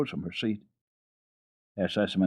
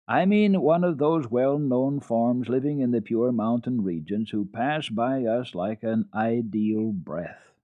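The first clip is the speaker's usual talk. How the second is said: higher, louder, lofty governess; gushing governess; 4 semitones higher, 4 dB louder, slower than usual. Acted. Governess describing her ideal, higher and gushing. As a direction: swoon over the ideal mountain child.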